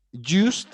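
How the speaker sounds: "used" said loud and high, sounding the final D; stressed used. Shown as a demonstration. Teacher to Spanish-speaking class, stressing "used" with a clear final D. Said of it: "va a llevar una D".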